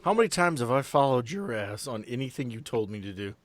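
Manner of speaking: usual speaking voice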